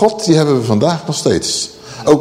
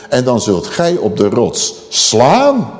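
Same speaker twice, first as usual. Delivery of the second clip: slow, measured scripture command; solemn command; 4 semitones lower, slower than usual. Acted. God instructing Moses, solemn command. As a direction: weigh each word up to 'slaan'.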